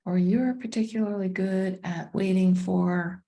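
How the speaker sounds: calm meditation guide with long pauses; unhurried, measured guiding voice; guided meditation. Acted. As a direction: ease listeners inward, leaving space after each phrase.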